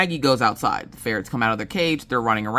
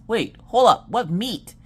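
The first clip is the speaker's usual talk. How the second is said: confused husband; 7 semitones higher, 3 dB louder than usual. Retold or imitated.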